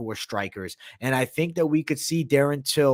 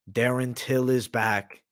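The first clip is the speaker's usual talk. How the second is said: slow, drawn-out reveal; slow teasing announcement; slower than usual. Acted. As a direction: tease the name slowly.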